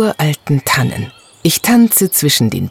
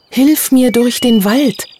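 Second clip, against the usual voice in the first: voice of the elf Abby; 10 semitones higher than usual. Acted. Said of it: "hatte sie gesagt".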